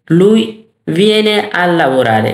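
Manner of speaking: very slow, carefully spaced Italian; word-by-word language-teacher demonstration; slow model phrase. Shown as a demonstration. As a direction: start firmly, then stretch each word for learners.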